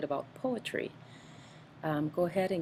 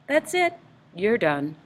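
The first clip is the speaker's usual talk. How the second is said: dentist voice; 7 semitones higher, 8 dB louder than usual. Acted. Dentist's line in poem.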